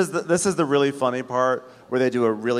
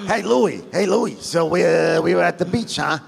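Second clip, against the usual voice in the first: loud, high ribbing that builds to yelling; tease, then holler for your pal; hammed-up loudmouth, climbing to a shout; Frank; 6 semitones higher, 4 dB louder than usual. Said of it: "So Frank is like".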